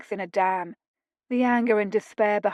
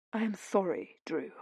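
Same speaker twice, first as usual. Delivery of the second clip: quiet; 8 dB quieter than usual. A narrator's reading. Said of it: "the Duke said quietly".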